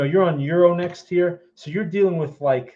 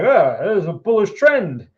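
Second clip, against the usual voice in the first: mock naive excitement; 4 semitones higher, 6 dB louder than usual. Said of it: "you're like".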